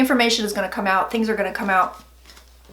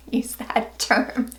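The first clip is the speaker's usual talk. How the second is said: breathy unvoiced whisper, much softer; whispered aside; 4 dB quieter, much slower than usual. Real, not acted. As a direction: toss it off as a secret aside. Aside about "shock rocker.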